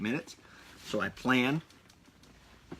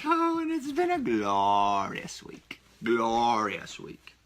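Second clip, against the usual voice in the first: mock grand enthusiasm; much slower than usual. To listeners about the week, slow, grand and showy. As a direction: stretch out glorious like an announcer.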